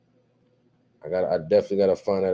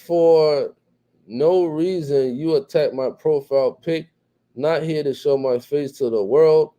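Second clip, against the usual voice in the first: higher, slowed whiny reading of the complaint; mock whiny reading; 6 semitones higher, slower than usual. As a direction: read it back like a sulking kid. Reading a viewer's complaint aloud.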